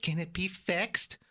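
slow, mock-pleading customer; lightly voiced anxious car owner; imagined customer. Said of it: "she's probably like".

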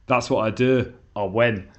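light Scottish accent impression. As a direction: quote the manager in a hint of Scottish. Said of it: "I apologise for my Scottish accent".

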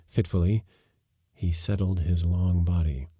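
usual speaking voice

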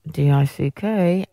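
deliberate enunciation. Shown as a demonstration. Slowly spells out song lyric.

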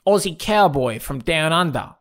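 lightly exaggerated Aussie accent; mock a film director's attempt at an Aussie cowboy accent; a touch of hammy Australian cowboy accent; Tarantino's Australian accent. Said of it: "the greatest Australian accent".

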